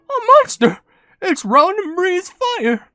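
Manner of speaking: high, loud mock panic; panicked cartoon figure. Cutscene figure warning of an attack, high loud panic. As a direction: cry out the alarm in a high cartoon voice.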